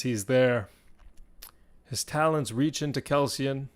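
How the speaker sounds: measured storytelling broken by dramatic pauses; game master narration. Acted. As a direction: draw out the suspense phrase by phrase.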